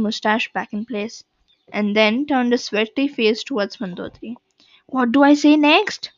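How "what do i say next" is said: loud, higher flustered question; an actor who forgot his lines; panicked blurt. A narrator's reading. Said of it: "In his panic, he forgot to whisper".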